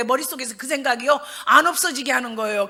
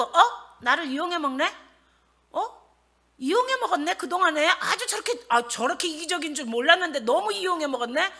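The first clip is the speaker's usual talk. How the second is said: resentful disbelief; 5 semitones higher than usual. Acted. Acts out her resentful inner grumbling.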